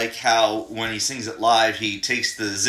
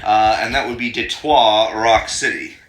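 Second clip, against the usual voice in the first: fake French accent; 6 dB louder than usual. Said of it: "silly people that fake a French accent say Detroit".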